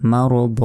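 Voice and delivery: মারদ ending in a long open vowel; one-alif pause ending. Shown as a demonstration. Teacher shows stopping on double zabar, মারদ with a long open ending. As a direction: draw out the last vowel of মারদ, no n. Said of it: "এখানে এক আলিফ টেনে পড়তে হয়".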